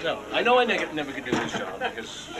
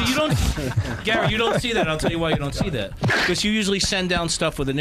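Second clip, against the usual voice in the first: loud, hitting each word; heated retort; 4 semitones higher, 4 dB louder than usual. Real, not acted. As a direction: push back hard at Gary. Arguing back at Gary.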